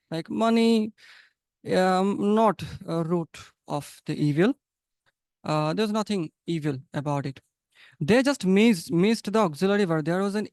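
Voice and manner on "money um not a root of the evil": a light imitation of a Russian English accent. Teacher imitating Russian speakers for students, mild Russian accent. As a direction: mimic how a Russian speaker drops the is. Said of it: "They use a very strong accent".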